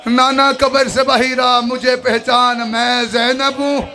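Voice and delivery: रोते हुए पुकार; weeping plea. Acted. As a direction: cry out to the grave, pleading. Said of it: "बीबी रो के कहती".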